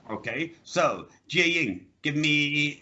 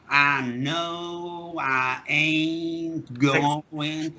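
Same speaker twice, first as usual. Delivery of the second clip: slow Southern drawl; Southern US accent; 3 semitones higher, much slower than usual. Retold or imitated. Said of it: "with the very long vowels".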